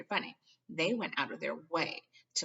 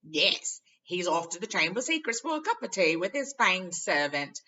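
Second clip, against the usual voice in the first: chortling; 3 semitones higher, 10 dB louder than usual. A narrator's reading.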